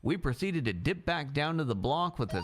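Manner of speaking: reading his own crime story aloud; story narration. Acted. Reading his crime book aloud to the court, in a story voice. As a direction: narrate it like an audiobook. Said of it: "you should narrate books".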